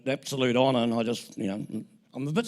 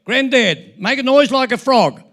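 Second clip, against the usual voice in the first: put-on high, loud child pestering Granddad; imitating a small child's insistent shout; excited little kid; 10 semitones higher, 10 dB louder than usual. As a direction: call out like an eager kid begging. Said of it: "kid come running into the room".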